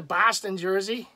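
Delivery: light mock Boston accent; a playful touch of Boston accent. Showing the other jersey, Boston accent. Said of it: "try to say it with a Boston accent".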